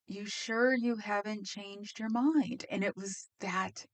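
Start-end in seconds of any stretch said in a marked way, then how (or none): 0.1-2.7 condescending drawl. Retold or imitated. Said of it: "nails down the chalkboard".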